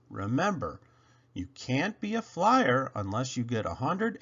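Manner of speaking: put-on old engineer warning the engine; earnest warning. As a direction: drive the rule home. Bill stresses the rule.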